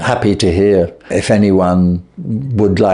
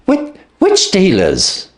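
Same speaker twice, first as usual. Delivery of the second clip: slow, stammering panic, a touch higher; panicked stammer; 9 semitones higher, slower than usual. A narrator's reading. Panicked man pressing his sister about the dealers, stammering. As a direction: catch on the repeated word in alarm.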